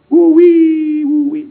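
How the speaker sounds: high, loud whooping woo-wee; excited exclamation. Retold or imitated. Pastor marvels at the crying ministers, loud excited whoop. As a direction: let it burst out with amazement.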